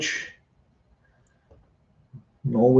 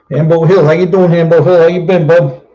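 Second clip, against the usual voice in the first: mock greeting; 5 semitones higher, 7 dB louder than usual. Greeting a hat like a friend.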